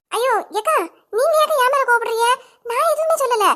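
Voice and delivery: high, tearful plea of innocence; high whining denial to the angry neighbour; whiny pleading. Acted. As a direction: beg them to believe you, near tears.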